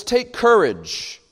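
tender encouragement; comforting. Acted. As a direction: reassure them gently. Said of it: "words of comfort".

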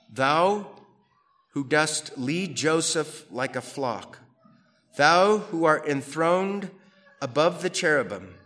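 measured liturgical reading; solemn scripture reading. Acted. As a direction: intone it like a psalm in church. Reads psalm in solemn style.

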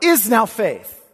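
slow, "is" hit up front; stress on is. Shown as a demonstration. Preacher showing the verb's emphasis to his hearers, slow. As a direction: lean on "is", then slow "now faith". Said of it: "emphasis of that verb up front".

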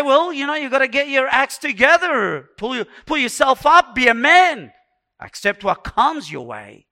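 loud, high, forceful exhortation; stern pep talk. Acted. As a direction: order yourself to toughen up. Acted stern pep talk to oneself.

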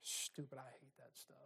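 quiet disgusted aside; muttered aside. Real, not acted. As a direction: toss it off to yourself. Aside after app list.

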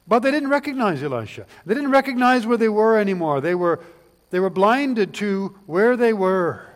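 preaching. Acted. Preaching builds to a peak.

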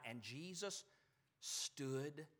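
very soft, a long pause between words; hushed, halting emphasis. Real, not acted. Preacher revealing the overlooked phrase, slow and hushed. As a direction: let "stood" and "still" each hang alone, softly.

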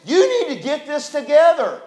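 lightly imitated stern pastor, breaking into a laugh; mock the pastor's no-nonsense order with a chuckle; blunt pastor, laughing. Pastor telling weepy Mark to pull himself together, laughing mock sternness. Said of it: "And then he said this".

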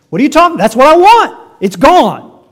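high, loud, whiny mock protest; sarcastic imitation of a grumbling believer; mocking complaint. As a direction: throw the listener's gripe back at them, hammed up. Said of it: "You mock me".

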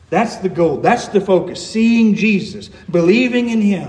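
forceful pulpit exhortation; impassioned preaching. Real, not acted. Preacher urging struggling Christians into the Scriptures, impassioned. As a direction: press each point home to the congregation.

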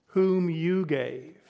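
"Whom" drawn out slowly, "you gave" leaned on; slow, pointed emphasis on "Whom you gave"; slow stress on Whom. Shown as a demonstration. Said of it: "We could say it this way".

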